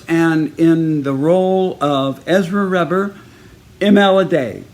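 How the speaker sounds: slow announcement building to the name; loudspeaker announcer. Retold or imitated. School announcing the musical leads, loudspeaker announcer. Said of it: "over the loudspeaker, they announce".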